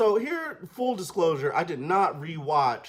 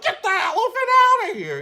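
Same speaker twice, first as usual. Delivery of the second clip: high, loud mock yell; hammed-up order; 8 dB louder than usual. Headmaster ordering the elephant away, high mock yell. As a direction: order it gone in a comic panic. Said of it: "And so he's like".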